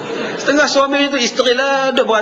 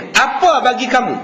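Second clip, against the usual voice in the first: a touch of an angry wife's retort, pitched a little higher; 4 semitones higher than usual. Retold or imitated. Wife answering her husband, mildly angry tone. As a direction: snap it back at him mildly. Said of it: "dengan nada suara, intonasi yang marah".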